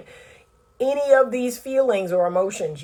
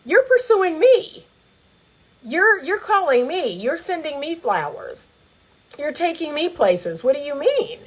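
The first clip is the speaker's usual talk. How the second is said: much higher, incredulous mock outrage; baffled woman; 6 semitones higher than usual. Coach voicing the dumped woman, much higher and incredulous. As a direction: squeak it out in disbelief. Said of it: "you're left like".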